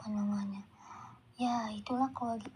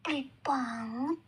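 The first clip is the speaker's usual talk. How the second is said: loud and higher on tambahin, slow and demanding; shouting father; 6 semitones higher, 4 dB louder, slower than usual. Acted. Father shouting at Mama for more money, loud demanding. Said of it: "ucap Bapak sambil teriak".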